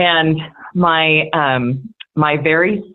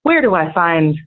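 Southern drawl teacher; 3 semitones higher than usual. Retold or imitated. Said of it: "he sits down and he says".

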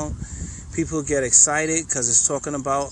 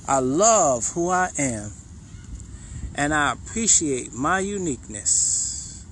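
slow heartfelt affirmation; slower than usual. Shown as a demonstration. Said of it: "I want you to say it".

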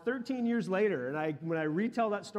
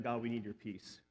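softly retold prayer, much quieter; hushed prayer; 6 semitones lower, 8 dB quieter than usual. Pastor retelling his prayer over his wife, hushed. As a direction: murmur it like a prayer at a bedside.

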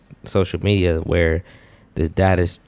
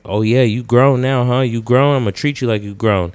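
mock taunting father; 5 semitones higher, 4 dB louder than usual. Father fighting his son.

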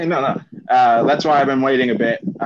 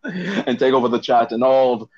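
evil villain voice. Pretend. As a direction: lightly play a scheming villain. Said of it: "sound like an evil villain".

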